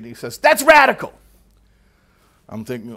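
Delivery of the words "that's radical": loud, high, astonished cry; animated exclamation. Retold or imitated. Subdued study partner suddenly animated, excited high cry. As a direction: blurt it out, thrilled. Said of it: "he became rather animated".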